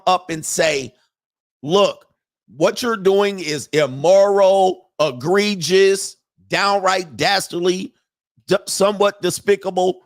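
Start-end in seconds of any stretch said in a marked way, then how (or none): 1.6-10.0 slow, higher-pitched mock lecture; mock moral condemnation. Women telling men off for what they do, mock condemnation. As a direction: weigh out each condemning word slowly.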